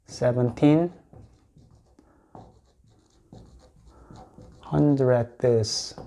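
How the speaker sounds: "seventeen" and "hundredths" said apart with a long pause; "seventeen hundredths" spoken clearly to repeat; model pronunciation. Shown as a demonstration. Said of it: "이렇게 읽습니다".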